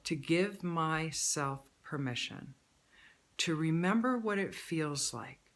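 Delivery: slow, deliberate choice statement; measured affirmation read. Shown as a demonstration. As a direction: lay each phrase down slowly and calmly. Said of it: "you're just gonna add a choice".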